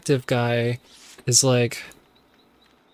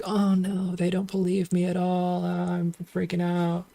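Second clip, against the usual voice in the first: mock panic; 6 semitones higher, 4 dB quieter than usual. Madison panics in the bathroom.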